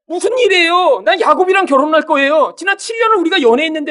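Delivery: high-pitched, hurried bride's outcry; hammed-up upset younger sister; acted distraught protest. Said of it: "울고불고 난리가 났겠죠".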